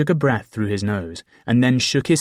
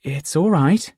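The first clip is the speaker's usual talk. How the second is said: soothing; 7 semitones higher, 4 dB louder, slower than usual. A narrator's reading. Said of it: "I said soothingly".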